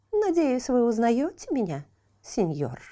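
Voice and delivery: water mocking the half-chick; taunting water. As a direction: tease him, knowingly.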